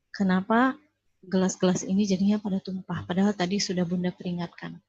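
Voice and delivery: firm, serious mother at normal pitch; mother to children after spilled drinks, calm but firm. Retold or imitated. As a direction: state it steadily so the child knows it's serious. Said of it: "intonasi yang, eh, normal, tapi kita tegas".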